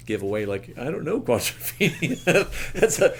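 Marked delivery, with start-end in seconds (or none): 0.8-2.5 mock confession. What he hid from a musician. 2.6-3.2 laughing through the words, higher and louder; can't keep a straight face telling it. Real, not acted. Laughing as he admits hiding it from a musician. Laughing at his own admission.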